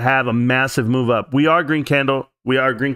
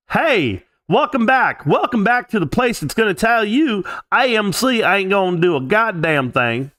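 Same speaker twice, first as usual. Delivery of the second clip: mock cheerful host; 8 semitones higher than usual. Mocking reply to a depressed comment.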